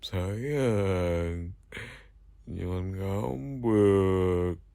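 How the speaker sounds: slow, drawn-out sweet pleading; low, cajoling lilt; tender coaxing. Acted. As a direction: stretch the words to soothe a sulking lover. Soothing a sulking lover.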